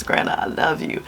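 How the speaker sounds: soft whispered little voice, lightly done; voicing granddaughter. Grandma voicing her grandbaby on her lap, soft whisper. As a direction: breathe it out like a small child. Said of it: "She says".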